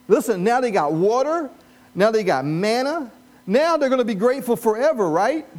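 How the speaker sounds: rising mock enthusiasm; ironic excitement. Real, not acted. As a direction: hype up the crowd with sarcasm. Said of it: "preacher building ironic excitement".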